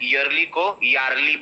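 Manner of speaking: first "yearly" as yer-lee, second as yar-lee; right then wrong. Shown as a demonstration. Teacher contrasts for students, correct then wrong "yearly".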